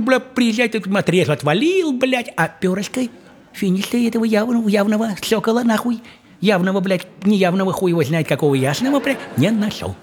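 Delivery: high, fed-up rambling; exasperated father. Acted. Father tells daughter he found no feather, high and fed up. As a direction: complain like a dad who searched in vain. Father voiced reporting failure.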